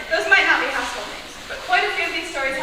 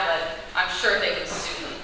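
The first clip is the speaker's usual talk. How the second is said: hushed conspiratorial aside; whispered aside; 4 semitones lower, 7 dB quieter than usual. Real, not acted. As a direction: drop to a whisper. Aside about being sued.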